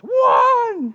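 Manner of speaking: high, loud yell; shouted count. Retold or imitated. Preacher mimics the kid yelling his count. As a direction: bark the number out like the kid.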